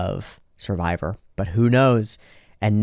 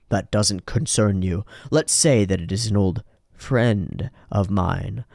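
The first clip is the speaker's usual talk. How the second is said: slow cold villain; 2 semitones lower, slower than usual. Acted. Whitesnake answers coldly.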